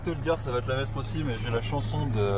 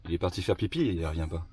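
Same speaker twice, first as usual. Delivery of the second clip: diary narrator; 5 semitones lower than usual. Pretend. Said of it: "j'avais mon rôle et tout".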